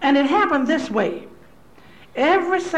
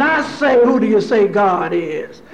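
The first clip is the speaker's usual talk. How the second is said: preacher's call; 3 semitones lower, 4 dB louder than usual. Retold or imitated. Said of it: "The preacher would impose again".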